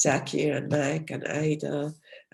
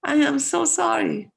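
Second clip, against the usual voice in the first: flustered apology; 11 semitones higher, 5 dB louder than usual. Real, not acted. Apologizes for unshared slides.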